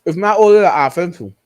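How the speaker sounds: talking through a mouthful of food; mouth full. Real, not acted. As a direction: chew and talk at once. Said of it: "You gonna stop talking with your mouth full?".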